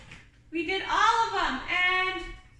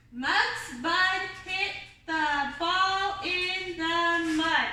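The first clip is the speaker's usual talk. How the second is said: slow, drawn-out reading of the phonics sentence; slow reading demo; slower than usual. Shown as a demonstration. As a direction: read it slowly for the kids.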